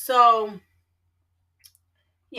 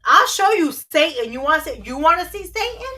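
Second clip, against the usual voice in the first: threatening; 2 semitones higher, 4 dB louder than usual. Real, not acted. Mock threat after being called Satan.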